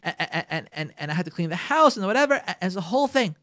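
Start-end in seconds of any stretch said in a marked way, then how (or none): 0.0-2.3 higher, faster defensive wife listing excuses. Retold or imitated. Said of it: "the woman will answer".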